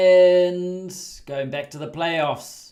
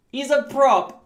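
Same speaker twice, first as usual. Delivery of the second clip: higher, louder, thrilled emphasis; excited; 8 semitones higher, 7 dB louder than usual. Real, not acted. Telling viewers his player is a prop, excited and louder. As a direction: shout it out in delight.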